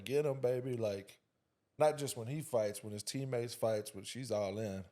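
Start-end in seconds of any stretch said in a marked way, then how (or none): 0.0-0.8 mildly raised cheering voice, louder; hollering mom. Retold or imitated. Dad imitates his wife at ringside, mock holler. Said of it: "'cause she's hollering".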